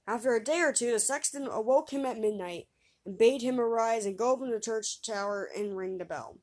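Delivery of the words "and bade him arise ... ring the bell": ordinary delivery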